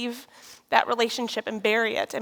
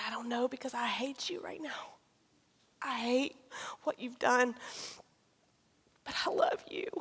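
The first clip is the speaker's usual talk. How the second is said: hushed, breathy whisper; soft whisper; 9 dB quieter than usual. Retold or imitated. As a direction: say it barely above a breath. Husband's whispered answer.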